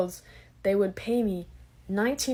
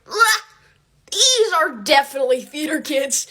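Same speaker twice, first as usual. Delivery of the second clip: mocking laughing girls; 6 semitones higher, 8 dB louder than usual. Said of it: "they're like".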